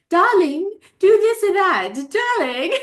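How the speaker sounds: high, loud mock Indian accent; imitated Indian accent. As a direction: play up an Indian accent, calling out to a spouse. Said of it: "they had the in-, in-, in-, Indian accent".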